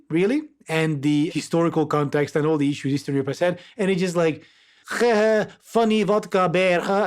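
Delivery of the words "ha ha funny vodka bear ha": drawn-out, mock-jolly caricature. Mocking how outsiders reduce Eastern Europe, sarcastic caricature. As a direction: imitate a crude stereotype with a fake laugh. Mocks the vodka-bear stereotype.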